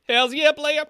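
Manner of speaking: loud, high mock-enthusiastic yell; hammed-up eager reply. Host retelling his answer to a sponsor offer, hammed-up excitement. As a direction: burst out with an exaggerated, playful yes.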